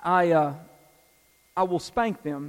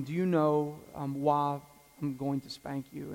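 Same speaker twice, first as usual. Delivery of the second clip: gentle parent. Retold or imitated. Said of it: "it usually goes something like this".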